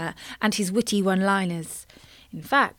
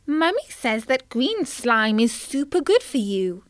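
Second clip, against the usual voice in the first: little tadpole voice; 2 semitones higher than usual. Acted. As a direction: sound like a small innocent child. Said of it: "said Tim".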